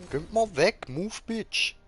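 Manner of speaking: high, loud shooing; annoyed yelling. Real, not acted. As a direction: shout at them to move. Shooing characters in the way. (genervtes Wegscheuchen)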